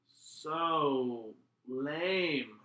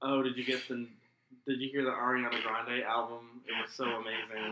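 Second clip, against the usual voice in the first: lightly voiced airheaded fangirl; mock fangirl. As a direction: play a gushing valley girl, tongue in cheek. Mocking a shallow fangirl voice.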